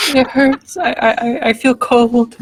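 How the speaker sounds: high, weak dying moan; death cry. Acted. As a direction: fade out as life drains. Dying animal describes its death.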